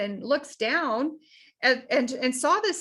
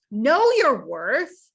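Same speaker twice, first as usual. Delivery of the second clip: slow, louder, deliberate; slow emphasis; 6 dB louder, much slower than usual. Acted. Coach drives home self-worth to clients. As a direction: lean on each word slowly. Coach stresses key message slowly.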